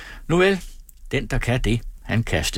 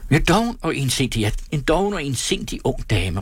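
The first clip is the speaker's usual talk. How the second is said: a touch of exasperated outburst, a little higher; mild shout; 5 semitones higher than usual. Acted. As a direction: shout it back, barely restrained. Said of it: "råbte Kold". (let mildt råb)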